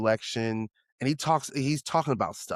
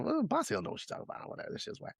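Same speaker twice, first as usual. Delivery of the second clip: dismissive self-quote; 14 semitones higher, 11 dB quieter, much faster than usual. Retold or imitated. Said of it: "I was like".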